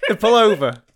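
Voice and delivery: giggling over his own punchline; laughing. Real, not acted. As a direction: push the words out while cracking up. Teller laughing at own joke.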